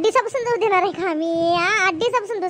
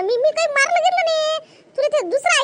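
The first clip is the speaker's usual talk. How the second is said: higher, defensive protest; indignant denial; 7 semitones higher than usual. Acted. Stepmother denying to Rani that she beat the girl, defensive. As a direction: deny it sharply.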